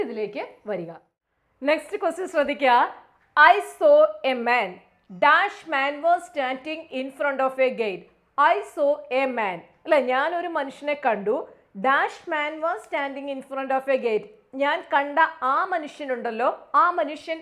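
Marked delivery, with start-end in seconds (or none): 3.4-9.6 very slow, louder question reading; slow read-aloud. Shown as a demonstration. Teacher reading the next question aloud to students. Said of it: "reads question slowly". 11.9-14.3 very slow, careful reading; slow read-aloud. Shown as a demonstration. Teacher rereading the sentence slowly. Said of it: "rereads sentence".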